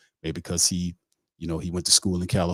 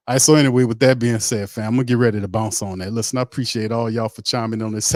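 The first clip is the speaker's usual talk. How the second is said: hyped sign-off; 5 semitones higher, 3 dB louder than usual. Real, not acted. Excited sign-off to fans.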